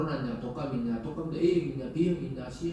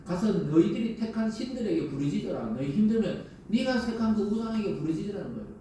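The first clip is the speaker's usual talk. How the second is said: God's stern words; 3 semitones higher than usual. Retold or imitated. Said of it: "하나님 뭐라 그래요?".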